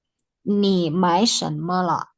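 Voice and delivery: slow, words spaced out; slow model reading. Shown as a demonstration. Teacher rereading the dialogue for students, slow and measured. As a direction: read unhurriedly for learners to copy. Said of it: "sambil dibaca teksnya nanti ditirukan".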